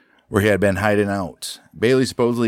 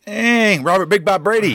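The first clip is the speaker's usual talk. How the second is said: amazed; 10 semitones higher than usual. Real, not acted. Marvelling at a gangster's name.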